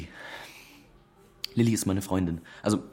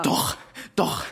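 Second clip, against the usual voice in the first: crying; 3 semitones higher than usual. Acted. Noah verstört, weint.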